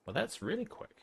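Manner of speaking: amazed it was so fast; a high surprised exclaim. Real, not acted.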